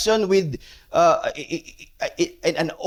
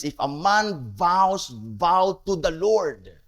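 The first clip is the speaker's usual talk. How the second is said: slowed right down, each word laid out; slow deliberate reread; slower than usual. Shown as a demonstration. Preacher rereading the verse to his congregation, slow and deliberate. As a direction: repeat the verse slowly so it sinks in. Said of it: "that is their emphasis".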